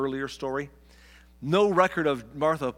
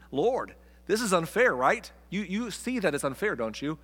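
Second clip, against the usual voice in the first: mock whiny complaint; 4 semitones higher than usual. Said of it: "And Martha's like".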